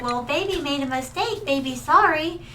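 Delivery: put-on a light, childlike voice talking about herself as Baby; babyish villain voice. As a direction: lightly imitate a grown woman acting like a little girl. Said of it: "the way she talked as well".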